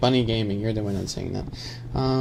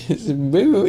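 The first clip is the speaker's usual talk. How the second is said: raised, loud imitated moo; 6 semitones higher, 6 dB louder than usual. Shown as a demonstration. Streamer explains the gay cow sound, mooing.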